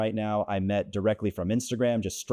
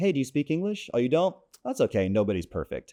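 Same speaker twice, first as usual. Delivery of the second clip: mock, light, cheeky, playful, swooping pitch; 3 semitones higher than usual. Retelling his own opening line to a woman: retelling his own teasing line. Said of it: "Just that little tease".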